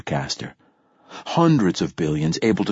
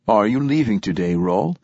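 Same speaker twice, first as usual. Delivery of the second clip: put-on gentle French-accented priest; softly, with a French accent. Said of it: "in his soft French accent".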